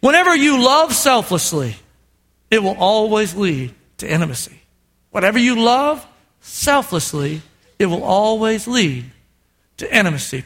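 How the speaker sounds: solemn teaching. Acted. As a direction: let the truth land gently. Solemn summary.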